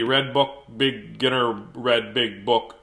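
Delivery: halting, disjointed word by word; mixed-up reading. Shown as a demonstration. Reader showing how dyslexia jumbles a title, mixed-up reading. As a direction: read it haltingly, as if the words are scrambled. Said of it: "sometimes I'll get 'em mixed up".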